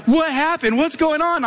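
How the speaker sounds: high-pitched imitation of an anxious wife; acted-out alarm. Voicing alarmed wife's questions.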